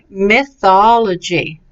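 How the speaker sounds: "mythology" carefully, with weight on the opening part; emphasis demonstration. Shown as a demonstration. Teacher explains emphasis, careful stressed pronunciation. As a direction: lean on the early syllables of "mythology". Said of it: "the emphasis goes on the first part".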